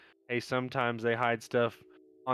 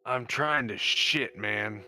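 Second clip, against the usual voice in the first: slow, effortful toilet strain; laboured, irritated plea from the stall; straining to speak; 3 semitones lower, slower than usual. Acted. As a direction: push it out slowly, mid-strain. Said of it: "Emphasis on the trying".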